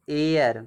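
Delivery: एयर said alone, starting straight on the vowel; silent H. Shown as a demonstration. Teacher showing how heir is read, vowel-first एयर with silent H. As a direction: say एयर with no H at the front. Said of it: "इसको हम एयर पढ़ते हैं".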